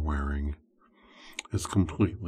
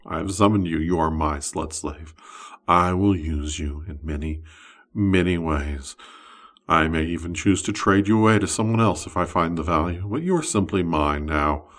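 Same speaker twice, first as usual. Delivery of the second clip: louder, possessive summoner speaking; wizard's voice; 4 dB louder than usual. Acted. Wizard claiming his summoned slave, louder possessive voice. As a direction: claim the summoned one as your own. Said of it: "and he says".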